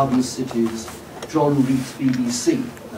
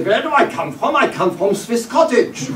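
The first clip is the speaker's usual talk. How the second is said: a touch of exasperated, higher mock reply with a laugh; mildly irritated retort; 7 semitones higher than usual. Émigré answering the shop kid, mild irritated retort, laughing. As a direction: toss back the question, half amused. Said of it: "he found it very irritating".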